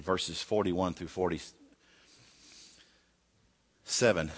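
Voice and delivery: "verses forty-one through forty-seven" said very slowly, word by word; slow, deliberate reference read; slow repeat. Shown as a demonstration. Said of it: "if you can turn over First Samuel seventeen".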